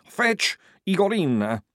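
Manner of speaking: high, strained gasp. A narrator's reading. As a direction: force the order out between gasps. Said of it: "he muttered, gasping".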